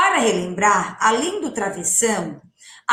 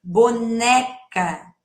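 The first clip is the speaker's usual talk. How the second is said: boneca drawn out syllable by syllable; teacher modelling the word slowly; much slower than usual. Shown as a demonstration. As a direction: stretch boneca for the class. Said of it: "esse som da sílaba final".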